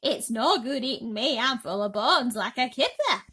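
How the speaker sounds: loud protesting plea; pleading call. Acted. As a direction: call it out to the attacker. Centipede pleading to be spared.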